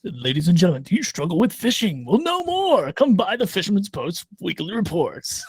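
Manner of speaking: hammed-up infomercial pitch; mock TV ad, big and salesy; hard sell ad. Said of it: "my commercial voice".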